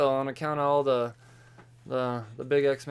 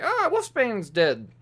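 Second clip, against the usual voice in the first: high, drawn-out mock wail; hammed-up cry of horror; mock scream; 8 semitones higher, 4 dB louder, slower than usual. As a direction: imitate a screaming woman, stretching it out. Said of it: "screaming on the floor".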